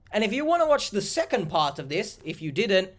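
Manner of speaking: talking while eating pizza; words around a bite of pizza; mouth full. Real, not acted. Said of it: "I'm eating a pizza".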